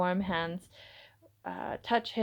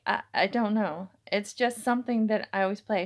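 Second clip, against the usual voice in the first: stuttering. Acted. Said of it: "she stuttered".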